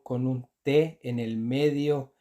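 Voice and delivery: T drawn out and stressed slowly; teacher stresses the T for learners. Shown as a demonstration. Slow emphatic T. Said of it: "S N y S L siempre se dice".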